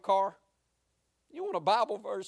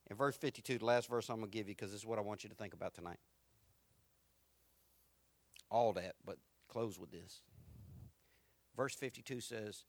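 normal talking voice

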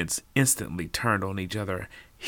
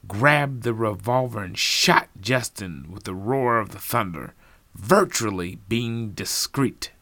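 accusing detective; 3 semitones higher than usual. Acted.

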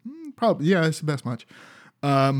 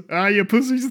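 mock taunt; 8 semitones higher than usual. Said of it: "And he just goes".

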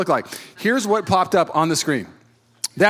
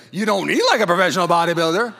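incredulous, pitched up on the verb; playful disbelief; mock doubter; 4 dB louder than usual. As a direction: imitate someone calling out the claim. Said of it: "You definitely say".

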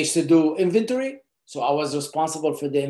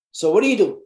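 pitched up, louder, sing-song question; odd high voice; 4 semitones higher, 3 dB louder, faster than usual. Real, not acted. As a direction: ask it in a raised, animated voice. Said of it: "Why I'm talking like that?".

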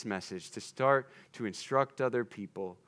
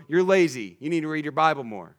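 louder, blunt mock rebuke; harsh scolding; 3 semitones higher, 6 dB louder, faster than usual. Preacher mocking a harsh rebuke to a friend, louder and blunt. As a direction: scold them like a nagging critic. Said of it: "Terrible way to apply this".

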